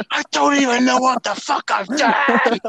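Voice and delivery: high mock-desperate cry; bewildered retold protest. Retold protest at screaming girl.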